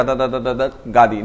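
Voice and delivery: rattled off on one single note; droning line with no change of tone; monotone. Shown as a demonstration. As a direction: keep every syllable on the same note. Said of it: "वो एक ही note में".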